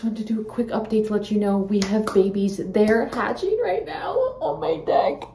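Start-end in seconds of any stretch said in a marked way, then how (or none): 2.6-5.2 happy tears. Real, not acted.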